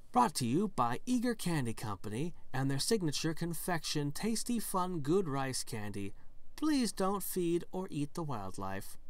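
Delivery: lilting promotional read, slowing at the end; sponsor announcement. Acted. Signpost naming its candy sponsor, announcer voice. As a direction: recite it like a park sponsor message. Reads sponsor notice on sign.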